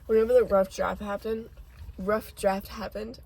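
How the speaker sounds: talking through a mouthful of food; words round a bite of food; mouth full. Real, not acted. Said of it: "I got food in my mouth".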